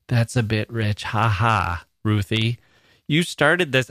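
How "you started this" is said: higher, emphatic mock accusation; mock all caps. Host playfully accuses the emailer Ruthie, mock all-caps emphasis. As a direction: say it as if typing in capitals. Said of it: "I'm saying this in all caps now".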